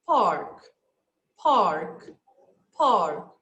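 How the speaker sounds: "Park" said three times low, clear and deliberate; teacher dictating a listening item; dictation word. Shown as a demonstration. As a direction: read the test word out for the class. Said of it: "let's listen number one".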